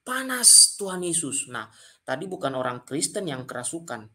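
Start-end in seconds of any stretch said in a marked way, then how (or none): 0.0-1.5 higher, drawn-out cry at normal volume; mock scream. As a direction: imitate a possessed person's cry, stretching the words. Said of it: "Dia langsung teriak". (teriakan tiruan orang kerasukan)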